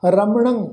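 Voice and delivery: ਰਮਣੰ with a nasal ending; nasal pronunciation. Shown as a demonstration. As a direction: end ਰਮਣੰ on a nasal -ang. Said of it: "ਨਾਸਕੀ ਉਚਾਰਨ ਹੋਏਗਾ".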